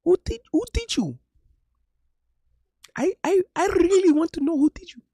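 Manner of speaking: high, hammed-up Asian accent; mock Asian accent. Mocking a Filipina girl's Asian accent for his friend. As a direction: imitate a Filipina girl in a broad Asian accent. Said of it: "the Asian accent's taking me out".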